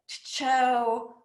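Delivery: "cho" said as t'CHO, with a stuttered t before it; alternative pronunciation. Shown as a demonstration. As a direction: put a separate little t before "cho". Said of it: "other people pronounce it".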